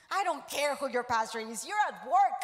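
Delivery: acted irritated dressing-down; mad boss. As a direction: snap like a fed-up boss, building to a yell. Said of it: "My boss got so mad".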